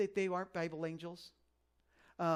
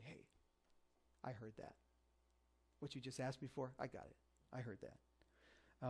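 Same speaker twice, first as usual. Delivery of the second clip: soft God whisper; 5 semitones lower, 13 dB quieter than usual. Pretend. God quietly telling a praying believer, hushed. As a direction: whisper it close like a secret.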